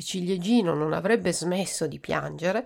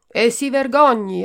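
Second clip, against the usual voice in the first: loud, higher scolding; indignant; 5 semitones higher, 9 dB louder than usual. Acted. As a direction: shame the doctor. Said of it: "aggiunse donna Seconda". (indignata e forte)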